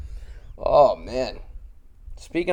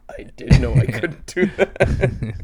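slow, mock nerdy white voice; Dave Chappelle. Comic echoing the routine, slow nerdy white voice. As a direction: lightly copy the stand-up's white-guy voice, drawn out. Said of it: "the nerd white voice".

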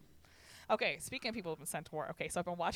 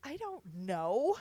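slow guilty whisper; sheepish whisper; 3 semitones higher, much slower than usual. Real, not acted. Whispering to her friend how much she drank. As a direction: barely voice it, embarrassed. Sheepish answer about drinking.

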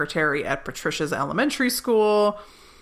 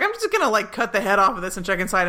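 mock casual; 3 semitones higher, faster than usual. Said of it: "She's like".

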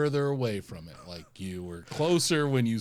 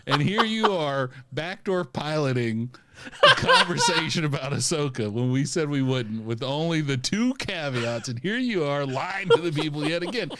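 mock scolding; 5 semitones higher, 3 dB louder than usual.

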